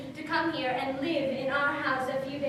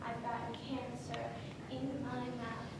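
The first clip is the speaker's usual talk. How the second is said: hurt confession; 2 semitones lower, 10 dB quieter than usual. Acted. Mother confesses cancer pain.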